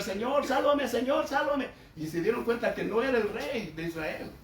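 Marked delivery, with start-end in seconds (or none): 0.0-1.7 retold cry for help. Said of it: "Y Josafat empezó a gritar".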